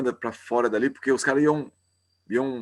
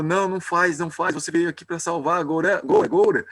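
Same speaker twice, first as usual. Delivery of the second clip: urgent plea; 4 semitones higher than usual. Retold or imitated. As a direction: beg him to stop, calling his name. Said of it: "Nityananda falou".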